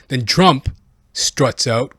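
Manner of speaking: ordinary talk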